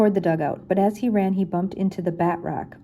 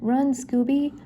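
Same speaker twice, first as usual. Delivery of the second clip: urgent call; 7 semitones higher, slower than usual. Acted. Fleeing the ghost.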